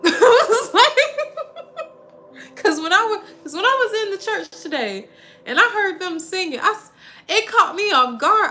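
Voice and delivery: high, loud, laughing through the words. Real, not acted. Recalling the church singing, laughing. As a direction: giggle while you tell it.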